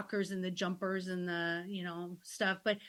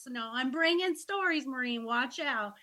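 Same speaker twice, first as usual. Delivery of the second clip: playful warning; 4 semitones higher than usual. Retold or imitated. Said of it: "she's like".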